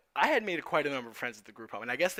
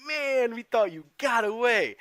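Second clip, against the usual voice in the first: much higher, louder and slow amused voice; laughing disbelief; 10 semitones higher, 9 dB louder, slower than usual. Retold or imitated. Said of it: "he just starts laughing".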